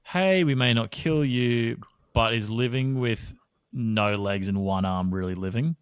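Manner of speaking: a hint of a sleazy spin doctor; mock PR spokesperson. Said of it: "spin shark P R into".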